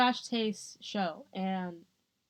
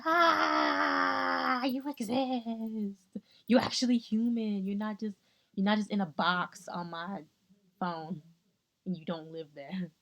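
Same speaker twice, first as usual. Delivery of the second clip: awed fan. Retold or imitated. Mimicking starstruck fans meeting a YouTuber, awed.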